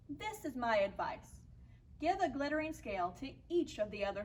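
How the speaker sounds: put-on measured picture-book reading for young listeners; story narration. A narrator's reading. Teacher reads a fish story to children, story narration.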